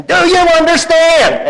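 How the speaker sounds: mock yell, high and slow; retold holler. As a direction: holler it at him like Lucy. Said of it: "she hollered at him".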